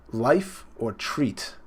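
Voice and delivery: very slow, drawn-out life or treat; slow menacing question. Retold or imitated. Big Mom threatening her son, a slow drawn-out question. Reading Big Mom's line.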